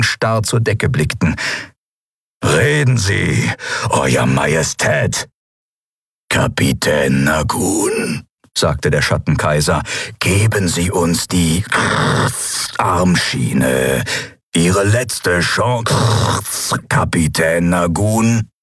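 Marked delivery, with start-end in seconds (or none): 2.4-5.3 menacing demand. Acted. Keru threatening fallen emperor. 6.3-18.5 eerie emperor voice. Acted. Shadow emperor demanding armband, slow eerie menace.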